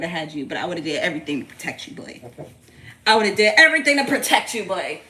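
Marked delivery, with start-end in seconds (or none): 3.1-5.0 emphatic vow. Real, not acted. Mother vowing to protect her baby, loud and emphatic. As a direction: belt out the promise to protect.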